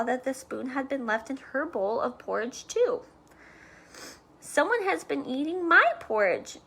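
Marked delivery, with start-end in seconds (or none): 4.4-6.6 a bit higher mother bear; lightly voiced mama bear, higher; middle-sized voice. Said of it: "in her middle-sized voice".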